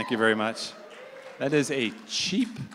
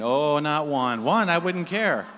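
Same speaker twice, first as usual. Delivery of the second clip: emphatic retort; 7 dB louder, slower than usual. Retold or imitated. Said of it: "I said".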